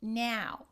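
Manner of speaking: "now" with a fronted A glide; Chicago-shifted vowel in "now"; shifted Chicago diphthong. Shown as a demonstration. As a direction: start "now" on the A of cat. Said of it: "we're gonna have".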